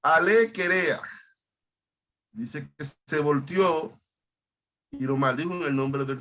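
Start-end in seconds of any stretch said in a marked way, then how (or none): 0.0-1.0 mildly mocking call, pitched higher; quoted jeer, raised a little; mocking taunt. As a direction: imitate the jeering youths, lifting the pitch. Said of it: "Se burlaban de él y le decían".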